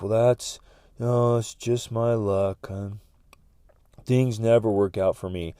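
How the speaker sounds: slow, defeated complaint; resigned self-talk. Acted. Telling oneself things never work out, resigned. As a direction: give up on your own luck. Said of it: "but we say things like".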